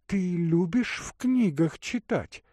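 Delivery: put-on a caring young woman offering water; Katerina's voice. Katerina asking.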